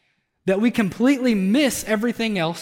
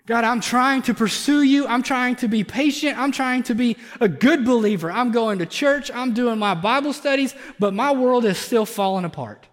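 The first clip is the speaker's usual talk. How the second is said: higher and louder, pleading and worn down; anguished believer pleading with God; desperate prayer; 5 semitones higher, 3 dB louder than usual. Pretend. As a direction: cry out to God as your world crumbles. Voicing a struggling believer's prayer.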